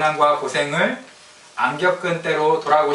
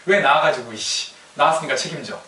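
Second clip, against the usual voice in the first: mock teen outburst. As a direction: start with a burst, then grumble the demand. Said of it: "사춘기 때는 하는 얘기지". (부모에게 짜증내며 대드는 사춘기 아이 흉내)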